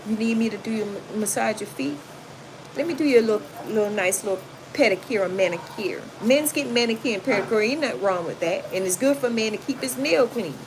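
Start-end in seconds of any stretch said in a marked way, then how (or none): 0.1-6.0 sweet caring. Retold or imitated. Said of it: "sometimes you gotta be like".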